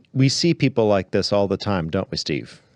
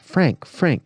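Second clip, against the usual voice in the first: ringing call; 7 semitones higher than usual. Acted. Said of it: "she cried in a voice that made the whole wood ring".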